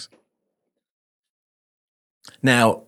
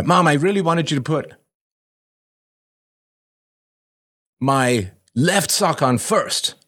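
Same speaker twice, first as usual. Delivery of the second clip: put-on higher, slow little-kid plea; child voice; 7 semitones higher than usual. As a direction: whine it like a three-year-old. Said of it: "the U P B question goes something like this".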